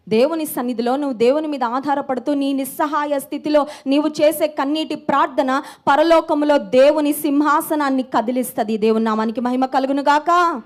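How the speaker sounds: sermon building in force; impassioned preaching. Real, not acted. Preacher on tearful prayer moving God's throne, impassioned preaching. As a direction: press each phrase on toward the closing praise.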